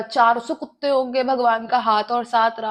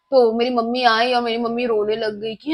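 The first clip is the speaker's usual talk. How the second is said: ordinary talk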